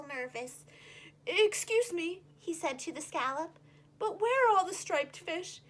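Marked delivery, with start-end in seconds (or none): 1.3-5.6 put-on louder, puzzled young fish; lightly voiced puzzled fish; Rainbow Fish. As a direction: ask where everyone is.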